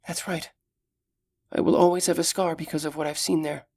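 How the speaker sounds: put-on gentle, caring young elf; young elf woman. Solana's voice held.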